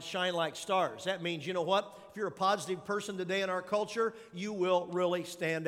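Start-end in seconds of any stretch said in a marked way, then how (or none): 0.0-1.0 slow emphasis. Shown as a demonstration. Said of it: "I underlined".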